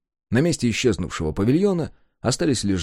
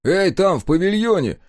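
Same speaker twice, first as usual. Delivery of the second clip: louder, higher annoyed shout across the room; angry call; 9 semitones higher, 4 dB louder than usual. Acted. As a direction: call out crossly to the pavilion. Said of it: "сердито сказал Егор".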